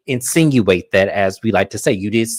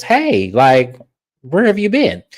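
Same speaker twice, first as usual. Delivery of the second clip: mock Lisa greeting; 3 semitones higher, 3 dB louder, slower than usual. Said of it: "and she goes".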